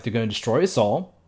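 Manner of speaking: escalating mock-ominous warning; mock doom-saying. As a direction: hammer each repeat a little harder, dramatically. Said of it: "Very Billy and Mandy of her".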